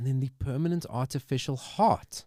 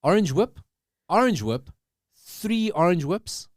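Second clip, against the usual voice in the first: movie quote; 8 semitones higher, 5 dB louder than usual. Acted. Reading a movie quote aloud.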